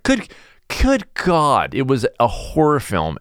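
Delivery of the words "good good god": high, sudden "good God" in disgust; shocked gasp. Retold or imitated. Retelling gross photos, shocked high cry. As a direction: recoil at the photos, voice jumping up. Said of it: "and I was like".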